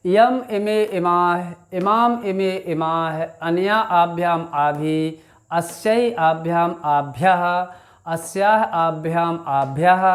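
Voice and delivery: slow, measured chanting of Sanskrit forms; slow recitation. Shown as a demonstration. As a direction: recite each form deliberately like a class drill. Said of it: "एक बार उच्चारित करके भी देख लेते हैं". (धीमा, लयबद्ध पाठ)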